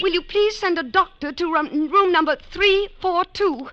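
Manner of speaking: desperate pleading. Acted. Daughter begs the operator to send a doctor, desperate. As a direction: plead urgently on the phone.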